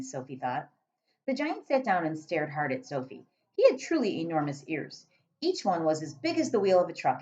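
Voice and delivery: calm read-aloud narration; story narration. A narrator's reading. Teacher reading the BFG to pupils, storytelling narration.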